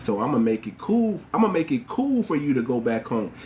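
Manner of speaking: low, easygoing reassurance; calm, friendly coaxing in a low register; nice and friendly. Acted. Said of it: "escort them nice and friendly and be like".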